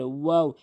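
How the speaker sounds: "ওয়াও" begun with tightly rounded lips; rounded wau. Shown as a demonstration. Teacher demonstrating the letter, rounded "ওয়াও". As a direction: round the mouth into a full w on "ওয়াও". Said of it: "মুখটা গোলাকার করে".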